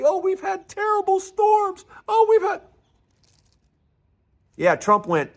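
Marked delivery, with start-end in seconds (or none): 0.0-2.6 very high-pitched, whining fake plea; mock begging. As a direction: wail pitifully, making fun of the beggars. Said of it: "who's been begging for money".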